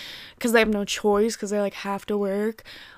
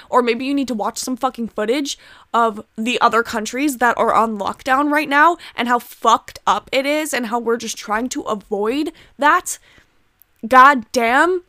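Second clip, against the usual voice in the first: a heated rant, pushed louder; angry rant; 4 dB louder than usual. Real, not acted. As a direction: vent the anger at people who won't stay home.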